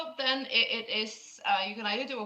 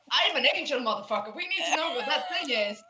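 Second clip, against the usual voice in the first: louder, quick and wired, half laughing; coked-up Cal; 4 semitones higher, 4 dB louder, faster than usual. Retold or imitated. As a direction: rant like you're high and invincible. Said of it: "Cal is coked up".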